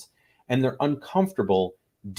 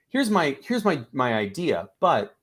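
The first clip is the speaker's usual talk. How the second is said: self-deprecating hedge. Acted. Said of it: "you're telling the people around you".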